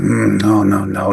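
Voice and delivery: imitated low, doomful doctor; a low, head-shaking doctor's refusal; grim anesthesiologist. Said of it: "he's got this voice".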